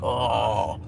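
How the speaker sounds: a hammed-up cry of can we live; mock plea. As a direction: beg in a pleading mock voice. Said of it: "it's just like".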